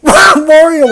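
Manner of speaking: high, loud, drawn-out demonic yell; hammed-up devil yelling out a name; Satan-like yell. A narrator's reading. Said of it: "someone yelling in a Satan-like voice".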